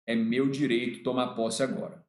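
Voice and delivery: firme e contido, em tom mais grave; sério. Retold or imitated. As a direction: exija em voz baixa de tom, sem brincadeira. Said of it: "Aí eu fiquei sério e falei". (falando sério, grave e firme)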